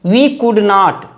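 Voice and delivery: very slow, word by word; slow dictation. Shown as a demonstration. Teacher dictating a sentence to students, very slowly.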